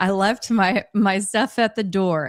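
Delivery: normal talking voice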